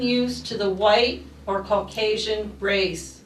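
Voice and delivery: measured, deliberate poem reading; stately reading of a poem aloud; poetry reading. Acted. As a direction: recite line by line with firm emphasis. Reads own poem in Clara's voice.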